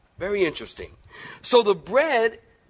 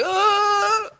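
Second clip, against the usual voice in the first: mock harsh grunt. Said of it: "that harsh mentality".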